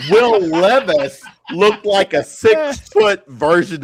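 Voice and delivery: correcting the height with "six foot" stressed. Shown as a demonstration. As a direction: lean on "six foot", slow and firm. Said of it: "you said that wrong".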